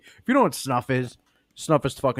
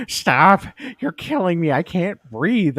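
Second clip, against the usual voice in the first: laughing plea; 8 semitones higher, 5 dB louder, slower than usual. Retold or imitated. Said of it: "And he's like".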